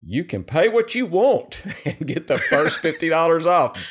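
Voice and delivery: can't keep a straight face on the repeat; laughing through it. Real, not acted. Host rereading the ad offer and cracking up.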